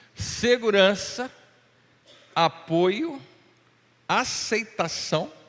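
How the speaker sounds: very slow, deliberate, each word given room. Speaking to the listener so each word sinks in, speaking slowly. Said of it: "Estou falando devagar".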